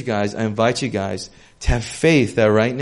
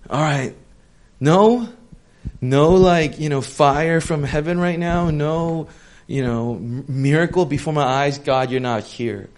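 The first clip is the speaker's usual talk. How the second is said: impatient demand; 3 semitones higher, 4 dB louder than usual. Retold or imitated. Mocks impatient demanding prayer.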